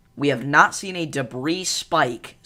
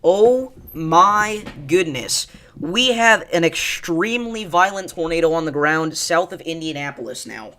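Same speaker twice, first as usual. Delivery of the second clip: sudden alarmed exclamation, louder; shocked alarm; 2 semitones higher, 5 dB louder than usual. Real, not acted. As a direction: gasp it out in real shock. Sees violent tornado on radar.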